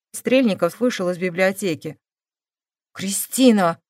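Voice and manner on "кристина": plain reading voice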